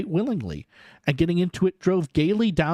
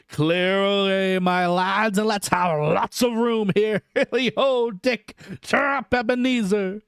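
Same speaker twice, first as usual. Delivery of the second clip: Fezziwig's jovial orders; 5 semitones higher than usual. A narrator's reading. Fezziwig urging the apprentices to clear the floor, jovial. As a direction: cheer the lads into clearing the room. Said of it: "cried old Fezziwig".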